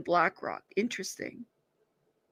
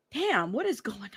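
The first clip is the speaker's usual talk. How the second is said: whispered to herself; 9 dB quieter than usual. Real, not acted. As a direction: breathe it out in a whisper. Reacting to court news.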